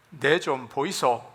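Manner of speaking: a light Gyeongsang dialect line. Shown as a demonstration. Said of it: "경상도는".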